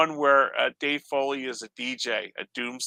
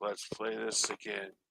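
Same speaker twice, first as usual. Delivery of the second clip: very quiet, level, flat monotone drone; 5 semitones lower, 13 dB quieter than usual. Retelling how a man by his record player spoke, in a monotone voice. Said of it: "he's like in this monotone voice".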